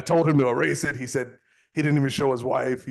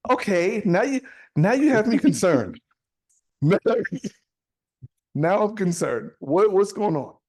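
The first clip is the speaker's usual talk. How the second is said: mock concerned wife; 5 semitones higher than usual. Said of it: "wife gets worried in scene".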